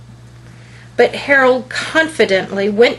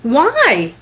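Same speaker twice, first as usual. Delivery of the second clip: eager, higher and louder question; excited; 4 semitones higher, 4 dB louder than usual. Acted. Boy on Santa's roof asks excitedly. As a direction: burst out with a keen why. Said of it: "Harold asked excitedly".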